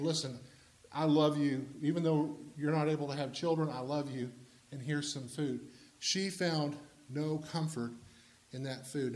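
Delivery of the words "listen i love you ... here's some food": a husband's tender murmur. Acted. Husband voiced comforting wife.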